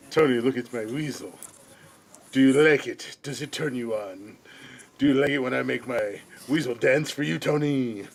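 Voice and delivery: lightly voiced leering villain; hint of a creepy taunting voice; mustache twirling villain. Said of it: "Jay said".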